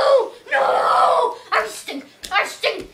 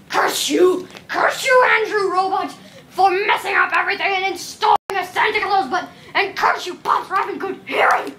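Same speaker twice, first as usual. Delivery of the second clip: plain shouting. Pretend. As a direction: yell it in own voice. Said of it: "why did I use robot voice".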